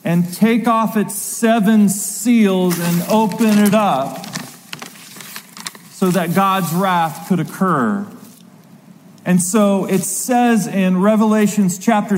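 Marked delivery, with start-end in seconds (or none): 0.0-8.1 slow, mild proclaimed yell. Retold or imitated. Someone in heaven's throne room, yelling out slowly. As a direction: call it out slowly, as a retold yell. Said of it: "someone yelled out".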